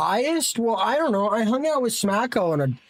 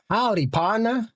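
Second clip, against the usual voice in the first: cowboy greeting; 5 semitones higher than usual. Retold or imitated. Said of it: "somebody says that in Australia".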